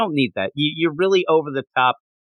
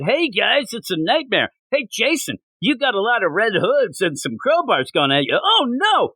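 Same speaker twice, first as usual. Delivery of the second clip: mock spooky narrator; 6 semitones higher than usual. Mock nightmare narration, high.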